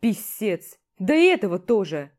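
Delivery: loud, gruff orders; commander yelling. Acted. Commander sends both to the medic and threatens dismissal, loud orders. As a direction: bark out the punishment, fed up.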